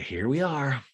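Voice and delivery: nearer the speaker's own pitch, dry echo; mock flat echo. Olivia echoing Austin's awkward greeting, flat. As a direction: hand it back flatly.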